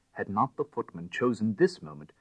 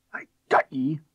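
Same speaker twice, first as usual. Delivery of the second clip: muttered whisper; 5 semitones higher, 7 dB louder than usual. A narrator's reading. Detective grappling a thief in the dark, whispered. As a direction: whisper it through the struggle. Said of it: "muttered a voice".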